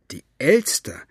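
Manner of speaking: half to herself, puzzling it out; wondering. Acted. Second, lower repetition. (nachdenklich wiederholt)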